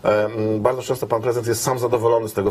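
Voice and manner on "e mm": ordinary delivery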